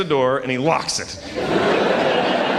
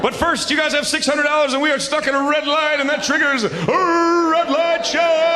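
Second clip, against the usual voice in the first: announcer hype; 10 semitones higher than usual. Acted. Host announces bonus round.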